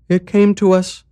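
high, light mayor voice; lifted voice for the calm, strange mayor; village mayor. Acted. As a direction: play the eerily cheerful mayor.

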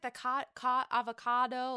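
"avocado" said oddly, as Ramona did; mispronounced avocado. Retold or imitated. Imitating Ramona saying "avocado" wrong. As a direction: stumble on "ca-, ca-" then a wrong "avocado". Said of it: "she said avocado not correctly".

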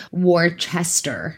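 put-on Boston accent. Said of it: "Is that your Boston accent".

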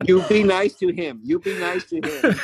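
put-on high, loud motherly Spanish accent; scolding mother with a Spanish accent. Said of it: "in her little Spanish accent".

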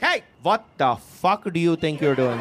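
mock-angry accented mom scolding; pissed mom. Mom catches child in the sprinklers, mock pissed. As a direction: demand it like an outraged mother. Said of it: "she just lands at a sidewalk pissed".

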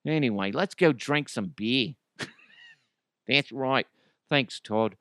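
lightly put-on Aussie mate; Australian accent. Aussies off for a beer after the American bloke, casual Australian accent. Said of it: "Australian people are like".

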